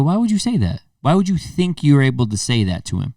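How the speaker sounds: sharp, rising challenge; confronting. Retold or imitated. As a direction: call him out hard. Confronting the kid at barbecue.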